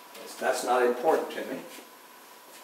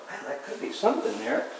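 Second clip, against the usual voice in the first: intrigued viewer; 8 semitones higher than usual. Retold or imitated. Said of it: "you just go".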